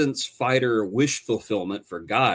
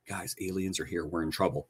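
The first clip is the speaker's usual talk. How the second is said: flat casual aside; 8 semitones lower, 11 dB quieter than usual. Pretend. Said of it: "No one ever says".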